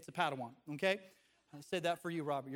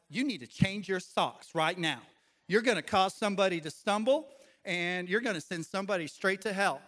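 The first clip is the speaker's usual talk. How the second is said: louder scolding in a put-on Southern accent; 6 dB louder than usual. Boy scolding his little sister over socks, Southern accent. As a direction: lay down the law, Southern style. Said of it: "I don't know why I had a Southern accent back then".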